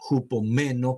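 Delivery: "hupomeno" with the stress on the E of "me"; acento en la E. Shown as a demonstration. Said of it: "con acento en la E". ("hupomeno" con acento en la E)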